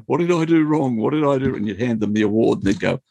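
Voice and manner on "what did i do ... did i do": high, anxious what did I do; worried kid. Retold or imitated. Kid called to the front office, asking nervously and high-pitched. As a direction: plead innocence like a nervous child. Summoned kid fearing trouble.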